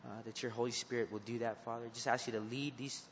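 earnest prayer voice addressing the Father; closing prayer. Acted. Youth leader praying over his students, earnest prayer voice. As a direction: pray over the group steadily and sincerely.

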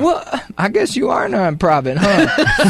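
mock disbelief, wry; sarcastic, high-pitched disbelief. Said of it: "And you're like".

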